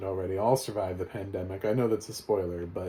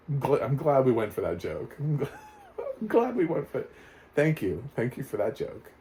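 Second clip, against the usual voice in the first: sarcastic; 4 semitones higher than usual. Real, not acted. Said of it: "sarcastic thanks to film".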